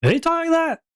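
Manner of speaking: put-on very high-pitched old-man voice; weird old man. Game master checking the shopkeeper's voice, weird old man. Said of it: "He just talked like a weird old man".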